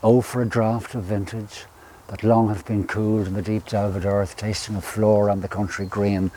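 reciting romantic poetry with feeling; poem recitation. Acted. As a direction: savour each line of the poem. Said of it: "I think that was Keats".

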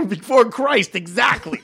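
high laugh breaking through the words; can't hold back the giggles. Real, not acted. Cracks up at the joke.

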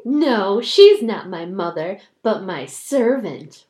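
put-on loud, proud snap of a spoiled girl; haughty denial. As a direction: sneer it, ashamed of her mother. Daughter's denial in the story.

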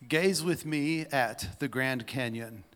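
slow, measured prose reading; dramatic read-aloud. Acted. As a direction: read it slowly, inviting them to picture it. Reads a written piece aloud.

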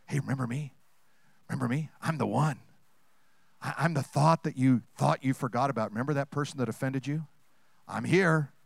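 lightly voiced sly thought, coaxing; a bad thought pleading like a pet for food; pet thought talking.

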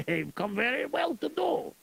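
put-on lightly accented Russian general, gruff and greedy. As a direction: play a scheming Russian general. Plays Russian general in story.

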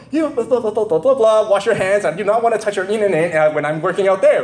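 imitating his frustrated yell at the gym; retold yell. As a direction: bark it out in frustration. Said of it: "So I yell out".

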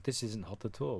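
mock the black belt in a hammy Russian accent; half-hearted imitation of a Russian accent; terrible Russian accent. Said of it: "that's a terrible accent".

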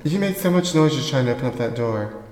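spiteful grumbling alone at home; bitter muttering to herself. Acted. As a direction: seethe and plot under your breath. Secret tape sketch, S0 talking alone.

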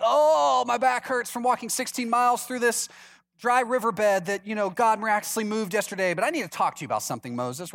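whiny mock complaint. Grumbling Israelites with sore legs.

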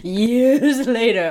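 slow, laughing echo. Real, not acted. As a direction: drag it out through a laugh. Echoing with a laugh.

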